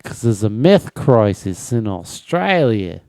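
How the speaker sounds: broad mock Australian; Australian accent. Explaining the meth joke to co-host, Australian accent. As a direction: put on Aussie vowels for the punchline. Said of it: "my impression of an Australian person".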